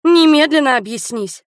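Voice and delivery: high, loud shout of his name; shouting his full name. Acted. Li shouts at Hiro to stop him leaving, loud and high. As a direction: call him out sharply and loud. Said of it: "закричала я".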